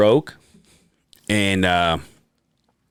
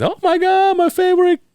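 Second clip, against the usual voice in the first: much higher, a gushing granny squeal; mock delighted grandma, pitched way up; 5 dB louder than usual. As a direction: gush like a doting grandma over her grandson. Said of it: "always claims to be so happy when she sees me".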